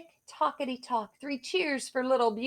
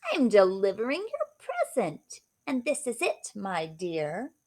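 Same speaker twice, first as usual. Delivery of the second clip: a hint of a sly old witch; lightly voiced witch offering a gift. Witch to Beauty, lightly voiced sly witch.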